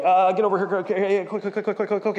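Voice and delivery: hammed-up panic as something starts to fall; urgent mock call for help. Worker holding something up calls for help in mock panic.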